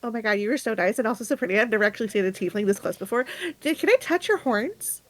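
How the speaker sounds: put-on fast, gushing young girl; excited girl voice. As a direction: gush it out in awe. Excited orphan girl gushes.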